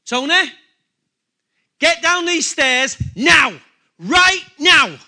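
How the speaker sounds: loud, high, slow and forceful, NOW punched hard; stern parental yell with heavy weight on "now"; urgent mother's command. Acted. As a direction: imitate a mother ordering her child downstairs immediately. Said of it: "she gave force to it by the way she spoke it".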